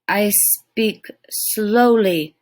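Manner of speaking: very slow, heavy warrior grunt; tiny Indian warrior answering slowly. Acted. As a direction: drag each word out slowly. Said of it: "grunted the miniature Indian".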